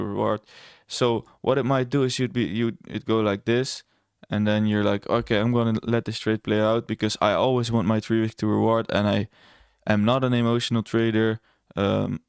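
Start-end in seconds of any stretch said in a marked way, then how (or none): 5.1-11.4 lightly mocking a self-assured trader; sarcastic imitation. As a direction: parody a stubborn trader, understated. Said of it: "I'm being very sarcastic right now and imitating I C T traders".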